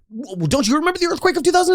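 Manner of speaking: hammed-up movie dialogue. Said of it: "Billy looking at Jimmy going like".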